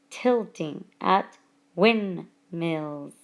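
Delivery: very slow "tilting at windmills", lingering on each i; stress on I sounds. Shown as a demonstration. Teacher showing assonance in the example, stress on I sounds. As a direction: separate "tilting at windmills", leaning on the i vowels. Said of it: "the I sound is accented in".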